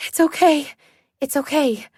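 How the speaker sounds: trying to sound calm while scared; steady, soothing words to a snarling dog; strained calm reassurance; forced calm. Acted. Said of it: "I say in the calmest voice I can muster".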